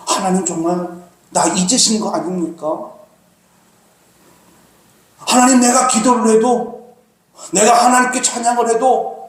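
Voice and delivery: lamenting David. Acted. Preacher voicing David lamenting to God. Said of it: "이렇게 탄식하는 거예요".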